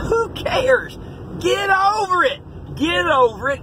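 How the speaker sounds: fed-up preacher's shout. Real, not acted. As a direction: snap them out of it. Preacher scolding self-pity.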